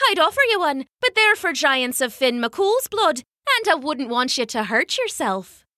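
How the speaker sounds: light, high motherly voice; a mother covering for her baby; Una's sweet voice. Acted. Una teasing the giant.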